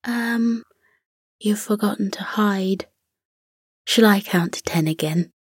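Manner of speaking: soft, gentle near-whisper. Acted. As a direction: ask kindly and softly. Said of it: "Giggles said gently".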